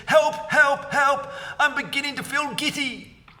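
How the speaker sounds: high, loud cries of help; screaming for help. A narrator's reading. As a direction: wail it in fright. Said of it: "screamed Missus Twit".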